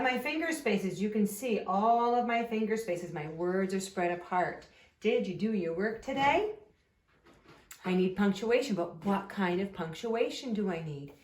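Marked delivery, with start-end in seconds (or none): 5.0-6.5 a clear teacher's question, lifting on TODAY; question rise on TODAY. Shown as a demonstration. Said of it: "my voice is going up at the end".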